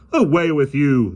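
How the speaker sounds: loud slow bellow. A narrator's reading. Policeman bellows at the lion, loud slow. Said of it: "the policeman bellowed".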